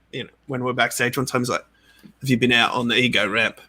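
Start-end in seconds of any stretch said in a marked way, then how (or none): 2.2-3.6 put-on a light, barely-there British accent; a first quick stab at a British accent, mostly own voice. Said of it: "That's my British accent".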